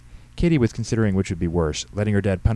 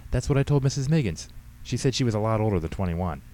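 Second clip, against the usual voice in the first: put-on higher-pitched, lively girl's excuses; teenage daughter explaining; 5 semitones higher than usual. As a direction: play the daughter justifying herself to Dad. Voices teenage daughter Katie.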